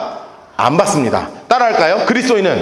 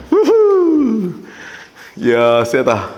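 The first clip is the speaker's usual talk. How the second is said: impressed exclamation; 3 semitones lower, much slower than usual. Real, not acted. Reacting to strong verse.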